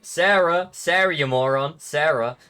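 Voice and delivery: hammed-up name-calling; mocking jeer. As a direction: jeer at a clumsy idiot. Acted jeer at someone who tripped.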